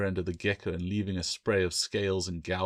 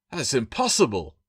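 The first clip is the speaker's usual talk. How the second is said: louder, curt bark; 4 semitones higher, 6 dB louder than usual. A narrator's reading. Bill refusing to believe the scales, curt bark. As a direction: bark it out in disbelief. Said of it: "Bill barked".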